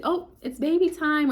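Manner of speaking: high, slow, loud announcement; imitated delighted, drawn-out announcement; excited nurse. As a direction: sing out the good news as the nurse. Nurse announces baby is coming.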